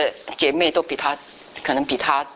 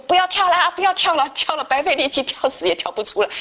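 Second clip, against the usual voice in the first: high, louder mock yell telling them to stop; calling down loudly; 10 semitones higher than usual. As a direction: shout down the pit, pitched way up. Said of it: "就大，大叫". (高声大叫不要跳)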